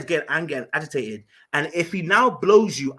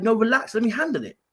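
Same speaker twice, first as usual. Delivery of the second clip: urgent retold plea; 7 semitones higher than usual. Stopping friend, man approaching.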